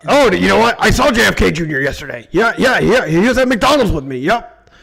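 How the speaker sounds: lightly acted conspiracy host; mock-insistent fact claiming; Alex Jones. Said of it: "start doing Alex Jones stuff".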